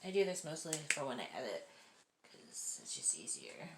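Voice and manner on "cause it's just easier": whispered aside. Real, not acted. Aside about editing.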